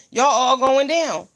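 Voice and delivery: slow, loud warning; slow emphatic punchline. Acted. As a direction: land each word slowly. Punchline about arrest.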